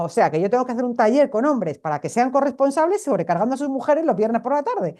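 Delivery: mock-puzzled protest, lifting in pitch; incredulous objection. Speaker objecting to workshop organisers about overburdened wives, incredulous.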